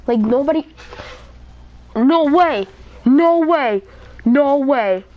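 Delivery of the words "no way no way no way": excited shout. Real, not acted. Shocked at his kill streak.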